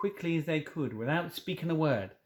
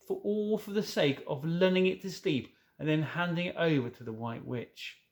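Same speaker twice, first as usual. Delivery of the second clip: anguished faun; 5 semitones higher than usual. Acted. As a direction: plead in shame as the faun. Fawn in anguish.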